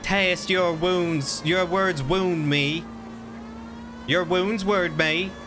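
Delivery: slow, hammed-up southern drawl; mock-hurt southern accent, slow. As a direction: drag it out like a wounded southern gent. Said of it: "practiced real long and hard on this southern voice".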